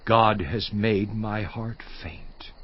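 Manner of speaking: a slow, hushed whisper, barely breathed; fearful whisper. Acted. Job confessing his fear of God in a whisper. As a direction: whisper it as if afraid to be overheard.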